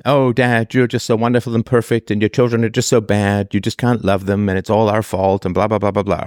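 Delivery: dry mock praise, lightly sarcastic. Shown as a demonstration. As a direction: sneer the compliments as if mocking Dad. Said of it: "repeat in a sarcastic tone".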